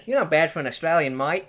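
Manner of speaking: playful fake Australian accent. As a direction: put on a jokey Aussie voice. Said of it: "How good's my Australian impression?".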